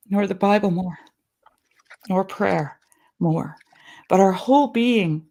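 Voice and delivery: put-on measured, earnest reading of an old sermon. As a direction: read it like a preacher in the pulpit, deliberate. Reads a sermon aloud.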